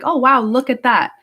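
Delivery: put-on childlike wonder. How little ones just observe, lightly acted wonder. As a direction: simply marvel at what you notice.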